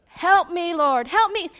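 loud, high mock plea; hammed-up begging to the Lord; mock urgent prayer. Woman who won't let God talk, mock urgent prayer. Mimics one-sided frantic prayer.

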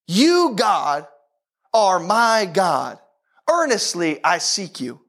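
slow, measured verse reading; scripture reading. Acted. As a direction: read it out for a congregation to follow. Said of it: "Let's read this verse together first".

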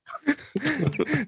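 high laugh. Real, not acted. Laughing at hottest haunted house.

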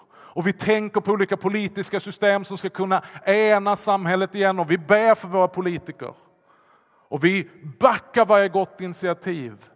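loud, high, rising sermon fervour; preaching at full force. Acted. Pastor preaching to the congregation with loud fervour. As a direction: preach it out to the whole church. Preaching builds over division.

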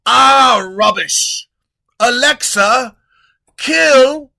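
loud, high shouting king; loud, high king shouting at his treasurer; furious king. Acted. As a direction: blow up and order the kill. King shouts, orders kill.

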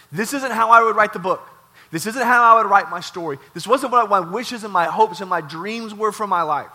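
preacher voicing Joseph's loud, surrendered prayer; impassioned prayer. Joseph's prayer voiced in sermon.

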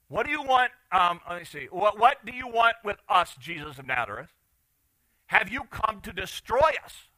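a hint of an alarmed challenge; demon challenging Jesus. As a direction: read it as a pressing challenge. Preacher reads demon's challenge to Jesus.

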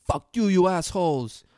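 imitated angry shout; yelling. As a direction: curse them out as you storm off. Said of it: "you hear screaming in the background".

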